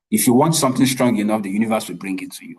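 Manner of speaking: lightly mimicked inspirational speaker; a hint of a stage motivator; motivational speaker. Shown as a demonstration. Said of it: "let me sound like a motivational speaker now".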